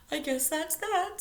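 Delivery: high, slow and sad; choking back tears. A narrator's reading. Stella giving up at the bench, choked. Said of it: "choking back the tears".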